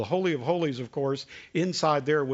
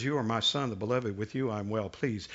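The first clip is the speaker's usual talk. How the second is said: softer, heavy, foreboding read; ominous; 5 semitones lower, 4 dB quieter than usual. Acted. Preacher rereads God's words to Jesus, softer and ominous. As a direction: let the blessing darken into a warning. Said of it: "very much more ominous".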